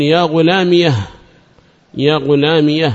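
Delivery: يا غلامية ending in an audible "-iyah"; pausal ha. Shown as a demonstration. Teacher showing the pausal form, يا غلامية ending in -iyah. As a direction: close يا غلامية on a breathed h. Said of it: "بها السكت معها".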